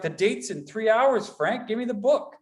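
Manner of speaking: high, pleading plea to Frank; panicked guy. Retold or imitated. Guy begging Frank for the book, high and pleading. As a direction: beg for the book at the last minute.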